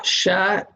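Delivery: sha with an open a; Arabic letter sha. Shown as a demonstration. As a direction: say sha clearly as a demo. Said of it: "With fatha".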